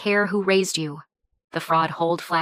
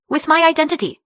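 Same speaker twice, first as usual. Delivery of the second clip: forceful; 9 semitones higher, 5 dB louder than usual. A narrator's reading. Confronting brother over stolen identity.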